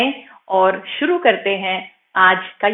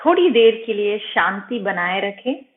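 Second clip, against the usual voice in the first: slightly softened meditation voice with long pauses; guided meditation; 4 dB quieter than usual. Acted. Yoga teacher guiding students' attention from toes upward, calm meditation voice. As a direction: guide attention gently through the body, unhurried.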